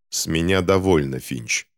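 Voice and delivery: cold, hard-edged doctor; metallic voice. Acted. Doctor losing patience with the boy, a cold metallic voice. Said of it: "металлическим голосом сказал доктор".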